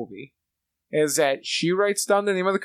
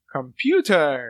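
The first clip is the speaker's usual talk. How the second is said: slow, drawn-out announcement after a gasp; mock-dramatic revelation; imitated movie character; 4 semitones lower, much slower than usual. Friend quoting the movie's sleuths, mock-dramatic.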